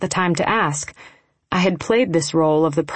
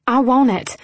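sudden high-pitched blurt; 7 semitones higher, 3 dB louder than usual. A narrator's reading. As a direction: burst out with it, pitched up. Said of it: "I blurted out".

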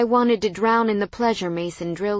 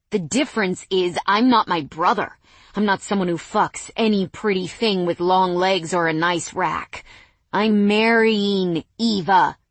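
angry; 5 dB louder than usual. Acted. Ex raging at brother.

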